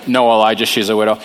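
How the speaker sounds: lightly voiced God, low and patient; God's reply. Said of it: "So God says".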